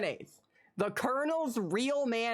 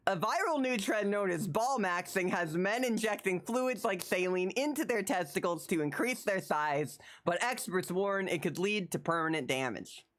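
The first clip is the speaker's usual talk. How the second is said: news read. Real, not acted. Reads news headline aloud.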